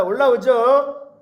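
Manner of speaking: loud, slow, drawn-out question; rising exclamation. Acted. Preacher stirring the congregation about rising anger, loud and slow. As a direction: stretch it out and build it up.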